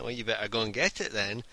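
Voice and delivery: put-on a touch of a New York accent; retold line in a light New York accent. Harley Quinn cosplayer to a cinema customer, mild New York accent. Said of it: "in the, the New York accent".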